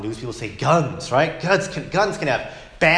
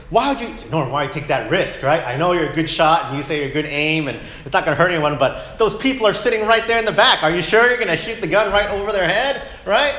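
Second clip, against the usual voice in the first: higher, louder incredulous pleading; worried friend calling Norm out; concerned rebuke; 5 semitones higher, 5 dB louder than usual. Retold or imitated. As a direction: talk sense into a reckless friend. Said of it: "We wouldn't say".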